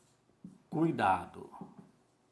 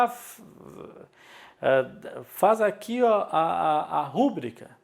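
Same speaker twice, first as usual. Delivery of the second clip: quoting the clerk; 3 semitones higher, 4 dB louder than usual. Retold or imitated. Teacher retelling the clerk at the contract signing. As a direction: voice the clerk saying rúbrica with the stress on ru. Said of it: "a pessoa disse lá".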